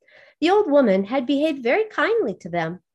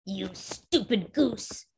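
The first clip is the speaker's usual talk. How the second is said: scornful witch; 3 semitones lower, 7 dB quieter, slower than usual. A narrator's reading. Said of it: "said she".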